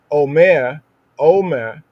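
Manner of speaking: "omer" said loudly with a clear o sound; "omer" in Hebrew pronunciation. Shown as a demonstration. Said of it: "Like we say, omer".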